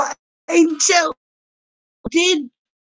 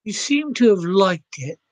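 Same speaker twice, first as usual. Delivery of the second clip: put-on Aussie accent. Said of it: "I don't know why I'm doing this accent".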